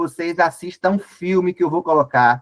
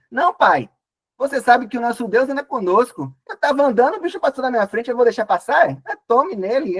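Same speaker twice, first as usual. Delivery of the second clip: much higher, bragging hunter act; boastful eager son; 6 semitones higher than usual. Acted. Jacob brags to his blind father about the hunt, much higher. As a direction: oversell the story like a cocky young man. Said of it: "Jacó dizendo".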